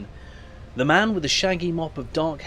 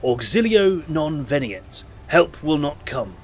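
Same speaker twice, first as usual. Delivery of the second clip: solemn proclamation. Acted. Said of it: "proclaims in crude but clear High Gothic".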